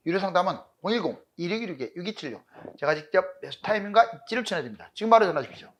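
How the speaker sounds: fast, pushy sales pitch; hard sell ad. Acted. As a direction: rattle off the number like an ad. Ad for paid consultation. (빠르게 몰아치는 광고 멘트)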